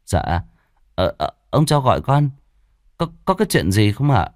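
stammering, hurried humble servant; timid servant. Acted. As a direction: stumble over words, eager to please. Servant answers master.

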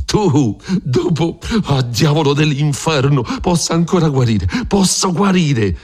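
high, desperate roaring threat; raging bellow. Acted. Don Rodrigo bellowing threats at Griso from the bed. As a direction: roar that he can still recover. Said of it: "mugghiava Don Rodrigo".

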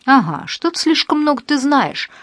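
lightly voiced blackmailer hissing; a touch of sly menace over the phone. A narrator's reading. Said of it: "прошипел голос в трубке".

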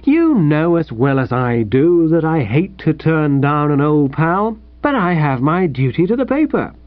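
mildly paternal, lilting encouragement; kindly. Acted. Editor advises a rejected old pal, kindly. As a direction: let him down kindly, then cheer him on. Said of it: "he said kindly".

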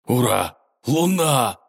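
joyful shout of wonder; gasping with joy; excited cry. A narrator's reading. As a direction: cry out in delight at the moon. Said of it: "выбрался Серый и ахнул".

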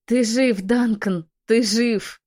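high, loud burst of joy; overjoyed exclamation; joyful cry. Acted. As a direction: cry out in relief and delight. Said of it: "радостно воскликнула я".

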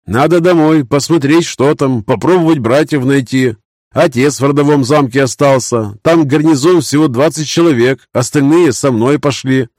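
high, earnest knight voice; a young knight mourning defeat; grieving young knight. Acted.

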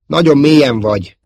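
loud, high warning yell. A narrator's reading. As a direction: yell a warning to your partner. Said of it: "ordította a f- társa".

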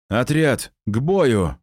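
sharp ringing command to fight; excited shout. A narrator's reading. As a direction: call the squad to arms, voice ringing with nerves. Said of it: "звенящим от волнения голосом выкрикнул я".

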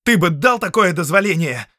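loud, high challenge; struggling against the guards; defiant outburst. Acted. Prisoner yelling back at the count, loud and high. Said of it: "рванулся в руках стражников".

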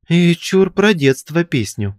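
high, loud demand; shouting. A narrator's reading. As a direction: call out from the crowd. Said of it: "кричал ещё кто-то".

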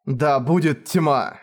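drawn-out, menacing command; slow villain command. Acted. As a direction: hold each word like a curse.

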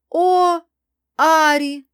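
high, loud, glad cry; delighted greeting. A narrator's reading. Friend greets Ari on sudden arrival, delighted. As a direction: call out with sincere joy. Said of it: "Келли мне искренне обрадовалась".

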